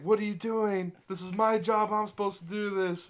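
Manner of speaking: retold indignant protest; Ben Affleck. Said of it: "fucking Ben Affleck's crying".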